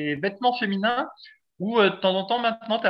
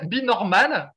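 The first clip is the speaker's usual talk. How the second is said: a self-mocking English accent on be normal; 3 semitones higher, slower than usual. Shown as a demonstration. Host reading the ad slogan in a mock English accent. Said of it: "avec mon super accent anglais".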